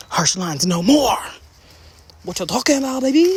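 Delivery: high diva voice ending in a laugh; sassy diva. Pretend. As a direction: show off the result like a diva.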